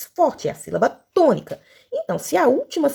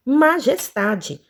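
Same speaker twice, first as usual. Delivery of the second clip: drawn out; 3 semitones higher, much slower than usual. Shown as a demonstration. Announces next word, drawn out.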